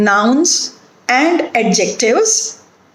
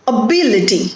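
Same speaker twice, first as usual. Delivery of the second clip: "Ability" stressed on BIL; stress on second syllable; faster than usual. Shown as a demonstration. Teacher showing word stress, "Ability" stressed on BIL. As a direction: lift BIL in "Ability", then fall away. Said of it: "the stress is on B".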